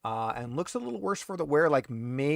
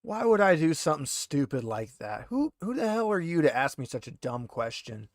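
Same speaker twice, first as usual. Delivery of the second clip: a hint of a rattled, defensive prisoner pleading innocence; lightly voiced handcuffed thug, indignant then wheedling; 5 semitones higher than usual. GM as the interrogated prisoner, lightly voiced and defensive.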